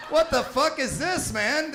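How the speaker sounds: giggling mock horror at the sight; laughing disbelief. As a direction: ask it while cracking up. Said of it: "And I was like".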